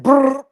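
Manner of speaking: rolled "brrr" of rapid chatter; imitated trilled brrr. Imitating accusers all rushing out, trilled noise.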